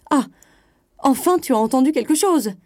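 high, loud, insistent prodding. A narrator's reading. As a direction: pounce on the admission. Wife presses husband for answer.

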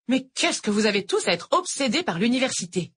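lightly voiced older teacher; a hint of a sweet Irish tutor; sweet-talking teacher, lightly voiced; teacher Noël. A narrator's reading. Noël exasperated.

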